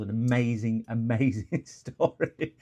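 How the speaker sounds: slowing into a laugh on the repeat; amused, breaking into laughter. Real, not acted. Streamer teasing his own anecdote, laughing. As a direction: let the laugh take over the boast.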